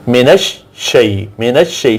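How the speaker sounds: "من الشی" as minash-shay, sh held double; doubled sheen. Shown as a demonstration. Teacher showing sheen said twice, "من الشی" with doubled sh. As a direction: lean on the sh in "من الشی", closing one syllable and opening the next. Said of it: "شین دو دفعہ بولی".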